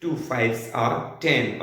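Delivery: slow, deliberate table recital; teacher reading "fours are eight" word by word; slow demo. Shown as a demonstration. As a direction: model the correct form slowly. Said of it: "ये होता है टू one is टू".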